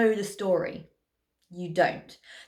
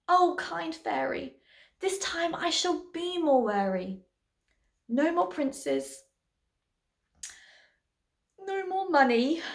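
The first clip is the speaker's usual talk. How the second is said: earnest plea; 4 semitones higher than usual. A narrator's reading. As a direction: draw out each wish with feeling. Cindy earnestly answers kind fairy.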